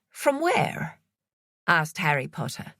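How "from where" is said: much higher, suspicious Irish voice; high, prying Irish man; Irish accent. A narrator's reading. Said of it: "He had an Irish accent".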